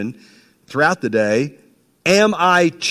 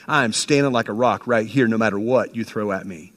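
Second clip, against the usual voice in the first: defiant vow to the enemy; 3 semitones lower than usual. Acted. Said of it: "tell the enemy".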